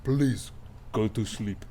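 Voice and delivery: a light hint of a Gerard Depardieu French accent; a lightly French, weary plea to go to sleep; Depardieu-ish French. Craucus urging everyone to sleep, with a hint of French accent. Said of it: "a little bit of Gerard Depardieu happening in that voice".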